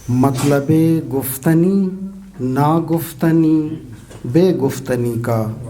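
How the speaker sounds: measured Urdu nazm reading, phrase by phrase; poetry recitation. Acted. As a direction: recite the verse with pauses between lines.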